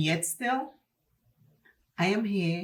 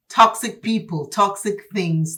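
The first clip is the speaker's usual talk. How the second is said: laughing; 3 semitones higher, 6 dB louder than usual. Real, not acted. Laughs at own mispronunciation.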